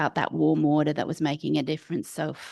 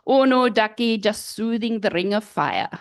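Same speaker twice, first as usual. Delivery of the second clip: attempted Scottish accent; 4 dB louder than usual. Old midwife explains the hot cloth, attempted Scottish accent. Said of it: "a Scottish accent".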